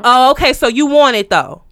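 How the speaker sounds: mock loud realtor, not listening; imitating a loud, pushy caller; too loud caller. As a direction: press on loudly regardless. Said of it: "bring it on down".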